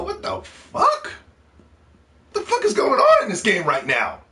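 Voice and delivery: slow, stretched-out cry of disbelief; shocked disbelief. Retold or imitated. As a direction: gasp it out like a stunned gamer seeing the scene. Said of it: "we go".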